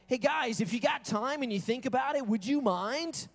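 a hint of a shy request; timid request. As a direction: ask like you don't want to bother them. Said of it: "That's not the way that worked".

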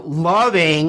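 LOVING stretched out with a swell; all-caps emphasis on LOVING. Real, not acted. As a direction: lean hard and long on "loving". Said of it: "caps voice when you go".

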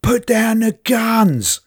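high, slow, far-off command; police over a loudspeaker. Retold or imitated. Neighbour retelling the police shootout, slow distant command. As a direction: call it out like a distant police order. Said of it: "I heard the police say".

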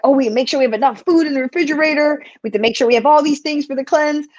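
fast, fretful mock worry; hurried mock panic over the fridge; anxious fretting. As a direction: rattle off worries in a rush. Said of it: "had big anxiety about".

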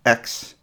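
ex said alone and whispered; a clipped, voiceless ex as its own unit; isolated syllable. Shown as a demonstration. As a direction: breathe out just the syllable ex. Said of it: "an experience of the first syllable".

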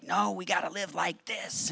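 high, slow, earnest preachy line; mock-pious lecturing of his wife; zealous insistence.

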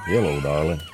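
low crooning country singer greeting; breathy vintage purr. Retold or imitated. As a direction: croon it low like an old star. Vintage country crooner greeting acted out.

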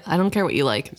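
lightly voiced curt brush-off, "care" leaned on; a hint of a cold captain shutting her down; cold dismissal. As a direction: toss off "I don't care" like a man who won't be touched. Voicing Kenneth's cold dismissal.

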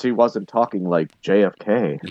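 rough attempt at a Boston accent; amateur Boston accent. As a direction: try a JFK-style Boston accent, not quite landing it. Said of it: "my best Boston accent I could do".

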